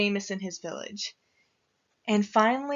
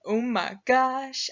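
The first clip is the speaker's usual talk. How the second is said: lightly voiced bear with a drawn-out exclamation; excited bear; slower than usual. Bear thrilled about the miller's wedding, mildly excited. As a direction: draw it out slowly, a touch of bear excitement. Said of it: "And the bear, he's like".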